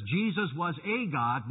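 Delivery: slow, with "a" said as a full "ay"; single out "a" before God; stress on "a". Retold or imitated. Preacher quoting the Witnesses' teaching, stress on "a". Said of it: "they keep emphasizing over".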